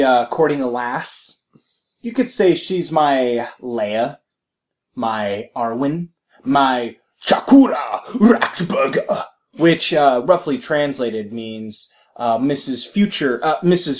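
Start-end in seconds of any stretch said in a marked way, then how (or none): 0.0-9.2 slow, earnest mock confession; self-serious nerd. Imitating a player describing his girlfriend, slow and solemn. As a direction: linger over each name lovingly. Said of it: "he's like".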